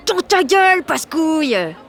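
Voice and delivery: high, loud victory jeer; triumphant taunt. Acted. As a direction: rub it in his face. Triumphant taunt after locking.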